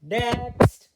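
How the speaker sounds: loud, high call. Real, not acted. Reader calling out to turn the page, a loud high call. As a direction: call out to move on. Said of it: "calling out".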